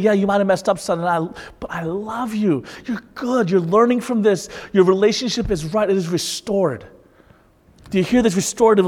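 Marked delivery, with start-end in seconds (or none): 0.0-6.8 gentle father. Retold or imitated. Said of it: "a dad picking you up and saying".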